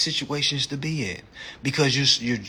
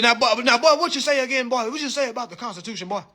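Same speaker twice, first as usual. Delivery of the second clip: mock country cop; 10 semitones higher, faster than usual. Cop sneering at the driver, mock country voice. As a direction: lean on every boy like a condescending cop. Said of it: "He said".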